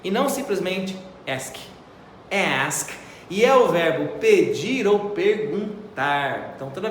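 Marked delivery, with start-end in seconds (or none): 2.7-2.9 teacher exaggerating the A in Ask; exaggerated A. Shown as a demonstration. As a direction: Ask with a long, open A. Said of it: "exagero nessa letra A".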